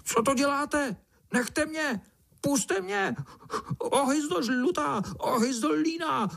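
very high frantic cries; panicked ant. Acted. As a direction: yell in panic from inside the beetle. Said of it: "volal mravenec celý pryč". (vyděšený mravenec volá velmi vysoko)

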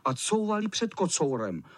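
ordinary delivery

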